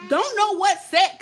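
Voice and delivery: mild mock yell; scornful. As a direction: spit it out in contempt. Scornful outburst.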